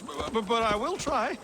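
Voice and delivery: stammering on the first word; nervous stammer, tripping over b; nervous stutter. Acted. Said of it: "I have a stutter when I'm nervous".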